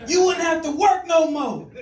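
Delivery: a stranger sweet-talking the comedian with a lovesick falsetto; flirty admirer voice. Retold or imitated. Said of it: "that dude saying".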